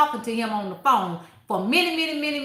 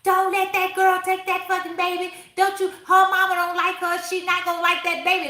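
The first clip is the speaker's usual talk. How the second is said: worked-up, high-pitched protest, half-yelled; mock yelling; 5 semitones higher than usual. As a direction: yell advice at a book character. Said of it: "I'm yelling at the book like".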